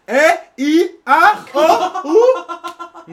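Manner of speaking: lightly mocked African-accented vocal warmup, high on the vowels; a comedian warming up his voice at the mirror, teasing; Michael Blackson mirror warmup. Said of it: "this nigga be in the mirror".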